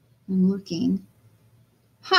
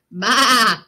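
sheep bleat; 5 dB louder than usual. Acted. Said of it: "said Sheep".

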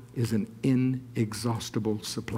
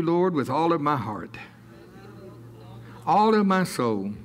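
measured prayer in short phrases; devotional prayer. Real, not acted. Believer surrendering possessions to the Lord, prayerfully. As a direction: pray it out deliberately, pausing after each phrase.

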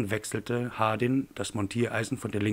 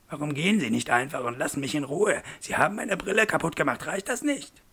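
climbing ever higher into a near-wail; desperate pleading; 6 semitones higher than usual. Acted. Man with broken glasses begs his attacker to leave, desperate rising plea. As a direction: beg him to go, voice rising in despair.

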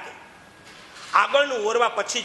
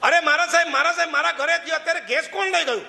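distressed woman; 8 semitones higher, faster than usual. Acted. Worried woman calling out to the monk, high and anxious. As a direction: call out in alarm to the monk.

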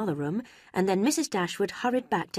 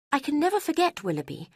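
put-on raised, earnest young woman voice; remorseful young woman; 9 semitones higher than usual. A narrator's reading. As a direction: confess with regret, gently pressing. Marianne voiced in story.

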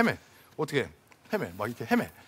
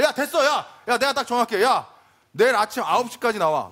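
raised, insistent acted order; bossy takeover; 4 semitones higher, 4 dB louder than usual. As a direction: cut in and take charge of the plan. Acts out taking charge among friends. (나서서 밀어붙이는 말투)

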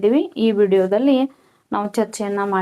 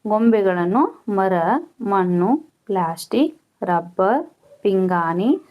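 slow, measured textbook reading; dictation read-out; slower than usual. Real, not acted. Teacher reading questions and answers to pupils, measured dictation. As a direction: read it out phrase by phrase for pupils to copy.

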